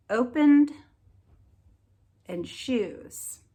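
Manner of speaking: each word said slow and clear, with a gap after it; word list read aloud. Shown as a demonstration. Teacher to young pupils: each word said clear and slow for them to echo. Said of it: "you can echo me whenever I read them".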